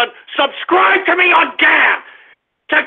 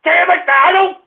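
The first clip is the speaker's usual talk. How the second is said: angry yelling. Acted. Ranting radio host yelling at caller.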